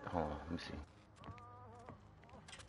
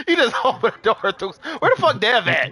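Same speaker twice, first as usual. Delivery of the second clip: laughing; 4 semitones higher than usual. Real, not acted. Laughing at friend.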